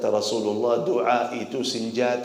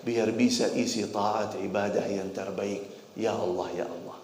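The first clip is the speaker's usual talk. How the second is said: humble prayer; 4 dB quieter than usual. Acted. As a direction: pray quietly and sincerely. Voices humble quiet prayer.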